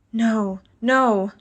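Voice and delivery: a frightened woman crying out no, no; fearful cry. Acted. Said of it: "I cried".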